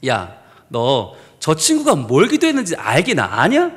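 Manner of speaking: low, slow, measured questioning; acted divine voice, low and deliberate; voice of God. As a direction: speak down as God, unhurried and pointed. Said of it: "하나님의 음성을 들려주셨어요".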